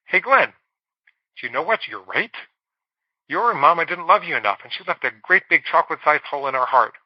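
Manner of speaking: a lightly voiced, teasing inner voice; crazy inner voice. The voice inside her head taunting Glenn, lightly mocking. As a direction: play the sly little voice in your head. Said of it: "this crazy little voice in my head".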